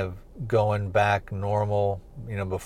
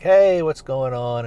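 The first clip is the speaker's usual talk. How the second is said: higher, louder, drawn-out mock-happy hello; super happy greeting; 4 semitones higher, 5 dB louder, slower than usual. Bruce greets her as she comes out back, super happy. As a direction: imitate someone delighted to see her, slowly. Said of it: "he's super happy to see her".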